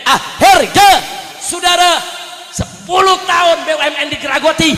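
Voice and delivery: loud, shouting sermon at full force; fiery preaching. Acted. Preacher rousing the crowd against corrupt officials, shouting. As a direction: hammer each phrase at the crowd.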